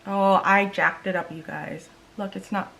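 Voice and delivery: ordinary delivery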